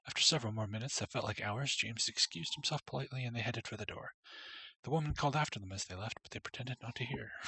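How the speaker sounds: steady storybook reading voice; story narration. Acted. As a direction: read it like a storybook. Reads game story text.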